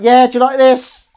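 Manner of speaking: high, loud, foul-mouthed cat; kitten voice. Acted. Voicing the kitten threatening her owners, high angry cat voice. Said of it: "She's like".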